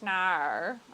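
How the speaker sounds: "no" revved like an engine; car-engine "no". Acted. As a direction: make the Aussie "no" go vroom. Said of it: "when it goes vroom vroom".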